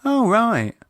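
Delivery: high, quick surprised "oh, right". A narrator's reading. Wife surprised to hear it was Ibiza. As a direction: caught off guard, correcting herself.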